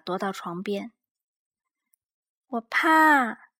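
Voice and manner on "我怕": high, small timid cub voice; tiny scared bear cub; Little Bear voice. A narrator's reading. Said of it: "小小熊说。".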